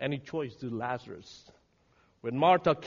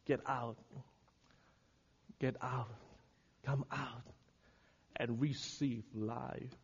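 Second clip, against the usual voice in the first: low, soft invitation; subdued pleading after the shouting; hushed appeal; 4 semitones lower, 10 dB quieter than usual. Real, not acted. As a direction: gently call them out, quietly.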